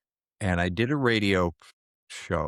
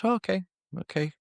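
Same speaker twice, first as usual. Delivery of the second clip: imitating a caller backing off; 11 semitones higher, faster than usual. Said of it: "And he goes".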